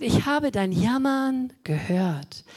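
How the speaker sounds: God's voice. Acted. God's promise, slow.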